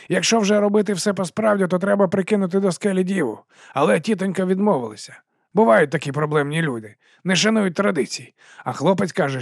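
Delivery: chummy sausage seller greeting the watch; fast-talking street vendor. Acted. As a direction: sell it with a grin you can hear. Narrator voices Dibbler.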